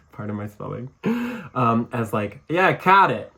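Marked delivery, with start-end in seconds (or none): 2.5-3.3 "caught" with a long rounded New York vowel, higher and louder; New York accent demo on caught. Shown as a demonstration. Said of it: "they're gonna say the word caught".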